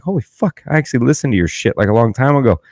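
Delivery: sudden high-pitched gush of excitement; starstruck. Retold or imitated. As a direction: blurt it out like a starstruck fan. Starstruck reaction on meeting podcaster.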